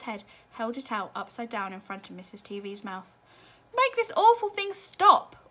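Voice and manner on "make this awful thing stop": high, loud, slow command; furious demand; angry order. A narrator's reading. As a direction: bark it as an order. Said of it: "ordered Mister T V".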